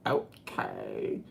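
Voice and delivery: deadpan fake okay; mock deep okay; low mock okay. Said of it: "No one talks that way".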